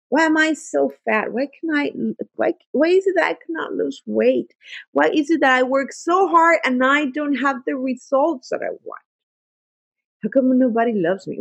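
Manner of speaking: a mild mock of a drained, self-pitying mind; self-pitying questions. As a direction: sound stuck and sorry for yourself. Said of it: "the questions that drain you".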